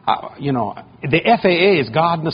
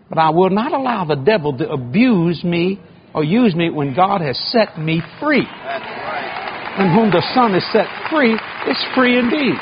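slow preaching cadence; slower than usual. Acted. Preacher's climax over music.

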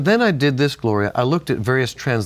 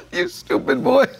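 higher, laughing mock Italian grandfather scolding; a laughing imitation of his grandfather yelling at him; 13 semitones higher than usual. Telling his cohost how grandpa yelled, laughing mock scold. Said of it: "he was going".

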